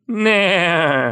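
high, loud whinny; horse neigh. Pretend. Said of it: "it's more like a neigh".

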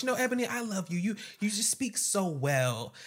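mock Heather voice. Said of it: "Heather goes".

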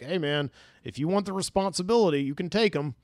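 lightly voiced New York cab driver; a hint of New York cabbie in the voice. Bus driver handing over the kids, light New York cabbie impression. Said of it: "turned into, like, a New York cab driver".

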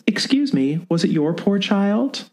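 put-on high, sweet old lady voice; a creepy gentle old lady; old woman. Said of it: "leans forward and says".

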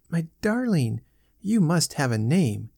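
put-on gentle little-girl murmur to her doll; sweet nothings. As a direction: coo tenderly to a doll. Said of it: "she murmured tenderly".

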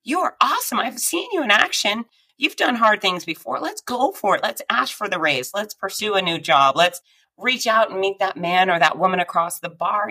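pep talk from your inner ally, upbeat; encouraging inner voice. Shown as a demonstration. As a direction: cheer yourself on. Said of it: "train that voice in your head to say".

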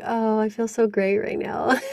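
giggly, gushing a little; laughing delight. Pretend. Host gushing to guest about her gentle voice, laughing. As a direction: laugh through the words with pleasure.

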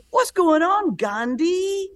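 high, jeering put-on voice of a rude young guy; mocking redneck taunt. Two young guys heckling a Muslim comic at a light, jeering. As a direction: sneer it out like a heckler at a stoplight. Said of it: "the other guy leans around his friend and goes".

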